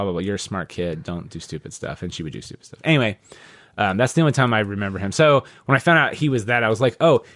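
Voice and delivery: normal talking voice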